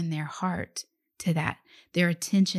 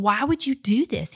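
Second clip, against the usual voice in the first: incredulous; 6 semitones higher, 5 dB louder than usual. Retold or imitated. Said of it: "He's saying".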